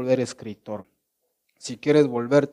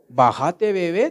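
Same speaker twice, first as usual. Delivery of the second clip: mocking taunt; 3 semitones higher, 5 dB louder than usual. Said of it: "te dicen".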